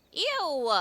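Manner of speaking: disgusted ew. Real, not acted. Reacting to dung.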